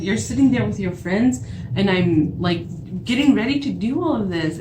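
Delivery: worked-up retold scolding; indignant, pressing rant; retold anger. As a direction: re-enact going off on him. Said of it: "I was just so mad".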